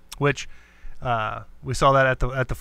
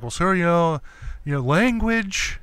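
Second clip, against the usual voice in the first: prim usher scolding; 2 semitones higher than usual. Retold or imitated. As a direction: chide him politely for swearing. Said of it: "He's like".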